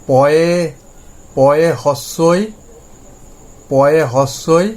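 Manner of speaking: হস্যই drawn out slowly with a rise; slow, deliberate letter-by-letter spelling. Shown as a demonstration. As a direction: break the word into letters slowly. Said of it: "তাহলে এটাকে আমি যদি ভাঙি".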